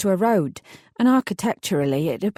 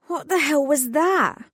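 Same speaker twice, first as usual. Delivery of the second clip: rough, cracked croak; 8 semitones higher than usual. Acted. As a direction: croak it out in shock. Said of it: "I croaked".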